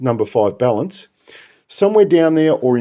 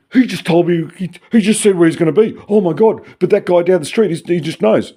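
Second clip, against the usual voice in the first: higher, louder breathless gasping chatter; excited gossip; 8 semitones higher, 4 dB louder than usual. Pretend. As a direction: gush like a thrilled neighbour. Gasping gossip about Patrick.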